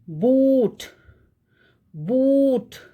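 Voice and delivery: boot with a long drawn-out oo; stretched oo. Shown as a demonstration. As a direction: hold the oo in boot. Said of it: "we are stretching that oo sound".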